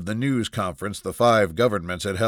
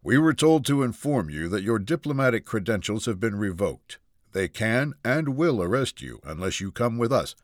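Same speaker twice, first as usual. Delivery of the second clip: steady, composed. Acted. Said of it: "his voice steady".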